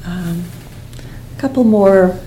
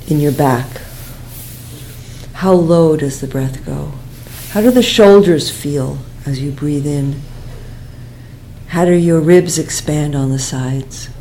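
calm guidance, softening toward the end, long pauses; guided meditation; 6 dB quieter than usual. Real, not acted. Teacher asking students to feel the breath in the back, quiet meditation voice.

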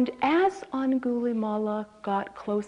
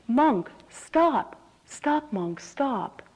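raised-voice call after someone; mock yell with a high, loud first burst; retold yell; 5 semitones higher, 4 dB louder, much slower than usual. Pursuer yelling after the walking Buddha, retold yell. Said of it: "He yelled".

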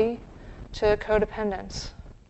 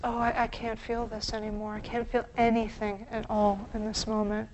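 numb; 6 dB quieter than usual. Retold or imitated. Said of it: "moves into numbness. It says".

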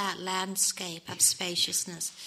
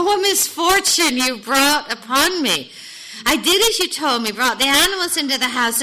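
loud, high storybook complaint, building from an incredulous start; exasperated outcry, acted in full voice; crying out; 4 semitones higher, 9 dB louder than usual. A narrator's reading. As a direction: protest your misfortune to the rabbi. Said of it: "returned to the rabbi and cried".

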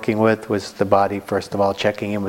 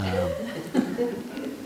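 chuckle; 8 dB quieter than usual. Real, not acted. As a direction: chuckle softly to yourself. Laughs after a knowing remark.

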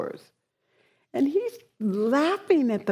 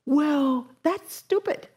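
scoffing dismissal; 6 semitones higher, slower than usual. Retold or imitated.

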